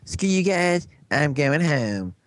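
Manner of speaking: put-on angry voice, drawn out at the end; mock angry yell. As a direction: imitate a huffy, angry exit line. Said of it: "angry face and yells at them".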